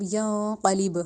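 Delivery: ینقلب said slowly with the ن carried into the nose; slow ghunna demo; nasalised slowly. Shown as a demonstration. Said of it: "ناک میں لے کے جا کے".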